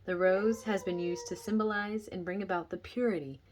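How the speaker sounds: measured book-reading voice, projected; reading aloud. Real, not acted. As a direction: read the passage out clearly to listeners.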